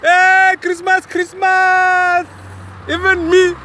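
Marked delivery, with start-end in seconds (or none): 0.0-2.3 high, slow drawn-out call. Real, not acted. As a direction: shout it across the road. Calling out to looters.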